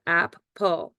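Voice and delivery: "ap, pull" as two separate syllables; syllables sounded out. Shown as a demonstration. Teacher showing how apple decodes, syllables sounded out. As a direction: say "ap", then "pull", each on its own. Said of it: "then we blend it together".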